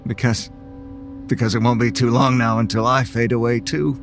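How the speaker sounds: defeated, ending his story; resigned. Acted. Resigned closing narration.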